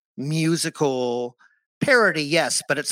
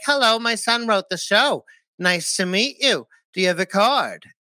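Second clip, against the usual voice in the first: imitating mother; 4 semitones higher than usual. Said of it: "She's like".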